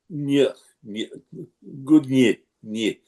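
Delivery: "ny" as one palatalized n-y sound; Russian sound demo. Shown as a demonstration. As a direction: demonstrate "ny" in separate bursts, n melting into y. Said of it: "We don't have that sound".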